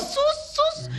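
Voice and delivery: high-pitched, urgent pleading; frantic shushing. Acted. Mother stopping Kenan waking his father, frantic shushing. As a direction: plead sharply for silence, voice shooting up.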